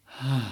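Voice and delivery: 力を抜いた軽いため息; 喉を使わず息だけで「はぁ」と吐く; ため息の見本. Shown as a demonstration. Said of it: "ため息の声". (ため息の声の実演)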